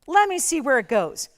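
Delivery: dismissive hesitation. Acted. Shopping host mimicking a viewer who sits back, dismissive. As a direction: put on a hesitant viewer, loudly. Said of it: "sit back and say".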